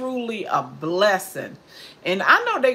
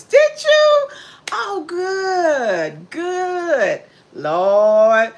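overjoyed surprise; 10 semitones higher, 6 dB louder, much slower than usual. Real, not acted. Delighted reply to viewer's comment.

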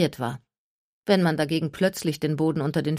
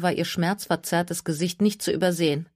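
plain reading voice

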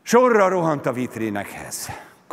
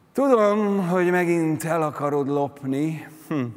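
scornful vulture, higher at first; mocking; 5 semitones higher than usual. A narrator's reading. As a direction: sneer it knowingly. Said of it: "gúnyosan nevetett".

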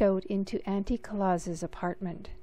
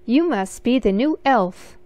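little elf man; 4 semitones higher, 8 dB louder than usual. Acted. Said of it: "a little man said".

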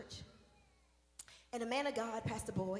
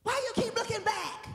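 challenging; 9 semitones higher, 8 dB louder than usual. Real, not acted. Preacher challenging the congregation.

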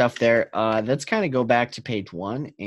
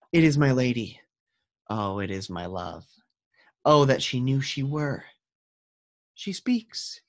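lightly dramatic Romeo reading, a hint of a lovestruck youth; reading Romeo aloud. Teacher reading Romeo to the class, lightly dramatic. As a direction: read Romeo's lines with gentle longing.

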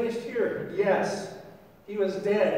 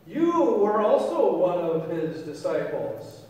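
accusing; 4 dB louder, slower than usual. Acted. Servant girl accuses Peter, acted.

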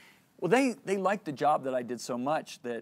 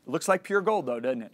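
leading question; 2 semitones higher, 5 dB louder than usual. Retold or imitated. God prompting the speaker about his gold ring, leading question. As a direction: press for agreement, voicing God retold.

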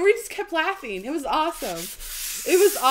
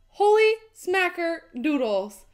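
stunned amazement; slower than usual. Real, not acted. Amazement settles after the donation.

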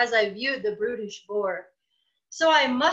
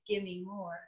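low, very soft grunt; grunting bird; 5 semitones lower, 12 dB quieter than usual. Acted. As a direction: grunt it like a greedy beast. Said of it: "he first grunted".

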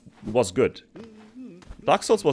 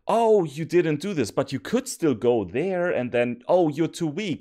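sing-song higher mockery; mocking the game; 5 semitones higher than usual. Player voices what the game says, mocking. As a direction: imitate an unfair rule in exasperation. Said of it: "This is like".

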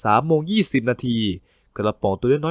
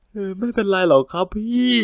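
higher, small pitiful voice; meek sad voice; 7 semitones higher than usual. Acted. Junior fakes a meek voice to his comforting coworker. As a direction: play it weak and pitiful for sympathy. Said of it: "ไม่ทำเสียงอ่อยสิลูก".

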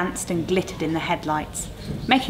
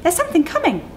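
alarmed Maggie; 12 semitones higher, 4 dB louder, faster than usual. Acted. Maggie spots oncoming lights.

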